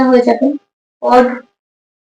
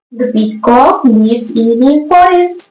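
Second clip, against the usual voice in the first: slow dictation; much slower than usual. Shown as a demonstration. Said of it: "teacher reads the answer".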